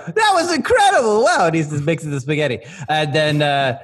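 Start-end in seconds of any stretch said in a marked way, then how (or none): 0.1-1.5 very high, loud cartoon amazement; awed chef. Chef watching from the corner, high amazed squeal. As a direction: squeal it loudly in wonder. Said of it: "and he's just like".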